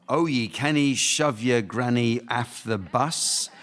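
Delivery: lightly put-on Scottish accent, drawn out. Shown as a demonstration. Host reads a Scottish nursery rhyme, Scottish accent. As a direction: recite slowly with a hint of Scottish. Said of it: "I'm sorry if my Scottish accent is too thick".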